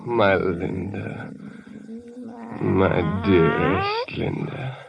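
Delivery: slow, low, lingering endearments; tender murmur. Acted. Man alone with his beloved Linda, tenderly.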